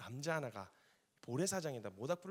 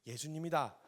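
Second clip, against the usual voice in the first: eager recognition; 4 semitones higher, 7 dB louder than usual. Retold or imitated. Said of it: "계산 안 해".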